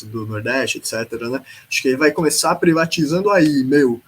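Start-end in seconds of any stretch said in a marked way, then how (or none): 1.7-4.0 louder, lightly put-on São Paulo Faria Limer accent; mock Faria Limer accent. Podcaster mocking a politician's privatization ideas, in a Faria Limer accent. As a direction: tease with a Faria Limer accent, stretching the last word. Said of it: "eu tô fazendo esse sotaque".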